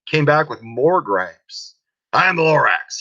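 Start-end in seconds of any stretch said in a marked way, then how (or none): 2.1-3.0 Lorax voice. Acted. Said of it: "he coughed and he whiffed".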